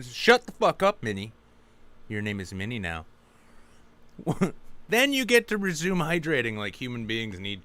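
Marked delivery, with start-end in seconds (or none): 0.0-3.0 loud barked order that drops off; angry yell. Pretend. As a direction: snap at the worker, then go cold. Manager yelling at staff.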